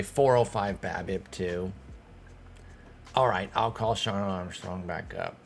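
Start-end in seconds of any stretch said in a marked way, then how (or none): 3.9-4.9 "Sean Armstrong" said in an oddly put-on way; odd name pronunciation. Real, not acted. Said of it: "I don't know why I said it like that".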